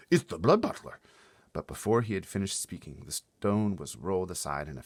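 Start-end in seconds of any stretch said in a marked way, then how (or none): 0.1-1.0 high alarmed giant voice; BFG voice. Acted. BFG warning Sophie, high alarmed voice. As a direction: call the alarm, high and loud.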